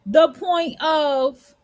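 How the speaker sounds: slow, voice catching with tears; fighting back tears, dragging each word; choked up. Real, not acted. Emotional memory, then a sigh.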